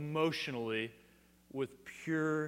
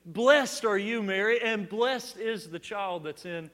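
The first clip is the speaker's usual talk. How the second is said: joyful scream; 4 semitones higher, 4 dB louder than usual. Retold or imitated. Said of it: "Elizabeth is screaming out in pure joy".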